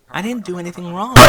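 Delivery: teary, wounded denial; sniffling. A narrator's reading. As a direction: protest through sniffles like a hurt child. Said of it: "sniffled Dinky".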